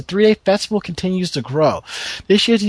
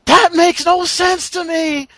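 outraged disbelief; 11 semitones higher than usual. Real, not acted. Outraged fan hears shipping news.

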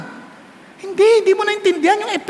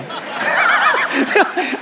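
amused chuckle. Real, not acted. Laugh at own joke.

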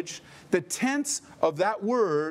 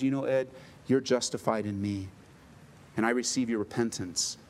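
gentle voice of God; 5 semitones lower than usual. Retold or imitated. God's voice, gentle.

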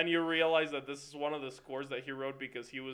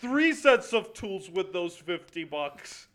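1 mock grumbling Neil; 4 semitones higher, 6 dB louder than usual. Voicing Neil complaining.

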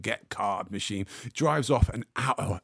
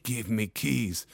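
slow menacing demand; 4 dB quieter, slower than usual. Retold or imitated. Russian clamper demands keys.

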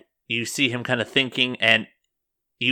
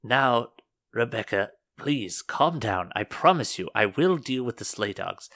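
lightly voiced older superior; measured, a touch of placating authority; older woman. Older churchwoman calming Rebecca, lightly voiced and placating. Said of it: "you hear an older voice say".

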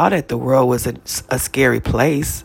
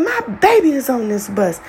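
dad's frantic cry; 8 semitones higher than usual. Retold or imitated. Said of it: "my dad scream out loud".

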